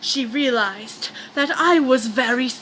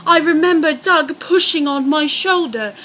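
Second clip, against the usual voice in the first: Diane's voice; 3 semitones higher than usual. Acted. Narrator switches into the wife's voice for her account. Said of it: "change of voices".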